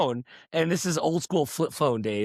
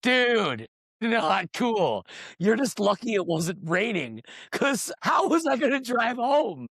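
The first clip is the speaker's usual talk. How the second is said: mock annoyed; 6 semitones higher, slower than usual. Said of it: "Not happy".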